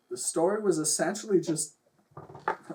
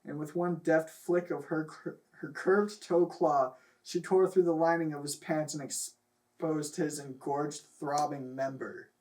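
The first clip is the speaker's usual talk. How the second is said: mock-dramatic reading of a silly story; story narration. Reading raunchy fan fiction aloud to laughing friends, mock-dramatic narration. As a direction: read it out like a serious story, half laughing.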